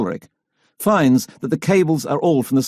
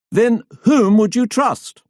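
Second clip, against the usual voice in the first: higher, slow and patient question; reasonable; 9 semitones higher, slower than usual. A narrator's reading. Fisher tries to calm hecklers, slow reasonable question. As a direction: keep it reasonable, slowly. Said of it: "still trying to be reasonable".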